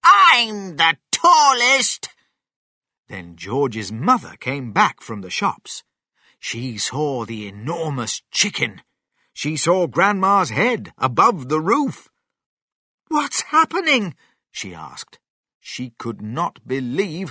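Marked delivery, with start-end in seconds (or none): 0.0-2.1 slow, high, loud boast; triumphant drawn-out yell; shouting Grandma. A narrator's reading. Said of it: "shouted Grandma". 13.1-14.2 high, startled asking; astonished question. A narrator's reading. Mother shocked by giant chicken.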